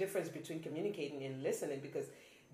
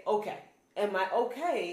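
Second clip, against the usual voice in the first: threatening okay; 3 semitones higher, 4 dB louder than usual. Retold or imitated. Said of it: "is like, Oh, I'm planning some crazy shit".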